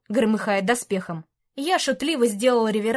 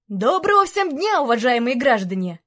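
mock-cheerful greeting; 3 dB louder than usual. Dragon greets crowd mockingly.

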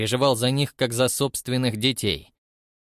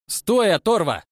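louder, higher sharp shout; shouted hiss; 9 semitones higher, 4 dB louder than usual. A narrator's reading. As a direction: snap after her as she runs. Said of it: "цыкнул Картер".

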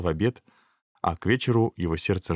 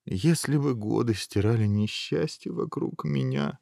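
understated woeful prince; sighing prince; 3 semitones higher than usual. Acted. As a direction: sigh it out in self-pity. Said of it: "вздохнул принц".

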